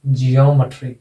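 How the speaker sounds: "जियोमेट्री" as jee-YOM-uh-tree, falling at the end; stress on O. Shown as a demonstration. Teacher sums up the pronunciation, stress on O. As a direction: lean on "यो" in "जियोमेट्री". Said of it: "तो इसका उच्चारण हो जाएगा".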